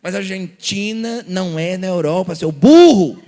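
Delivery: mock scolding that breaks into a loud laugh. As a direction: tease the wrong answer and laugh. Mocking a wrong answer.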